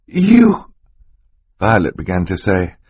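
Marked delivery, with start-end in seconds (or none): 0.1-0.7 put-on high, louder girl's cry; choked girl's voice. Violet trying to accuse the villain, choked and high. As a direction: struggle to get the word out, pitched high. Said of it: "but her throat fluttered".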